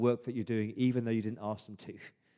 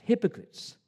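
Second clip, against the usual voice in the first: hypocrites repeated much higher; a higher, sharper echo of the accusation; raised accusing repeat; 10 semitones higher than usual. Retold or imitated. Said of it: "he says".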